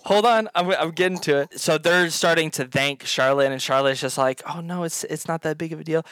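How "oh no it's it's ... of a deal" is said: softly spoken brush-off; modest demurral. Acted. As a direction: play it down quietly and modestly. Modest reply to grateful families.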